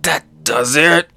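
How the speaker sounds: playful show of resolve; mock fed-up fighter. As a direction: announce it in a cartoon hero voice. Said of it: "And he's like".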